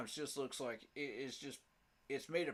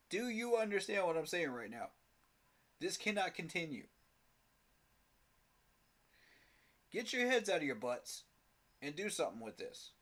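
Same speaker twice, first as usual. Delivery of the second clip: halftime pep speech; 3 semitones higher than usual. Real, not acted. Ranting at team management.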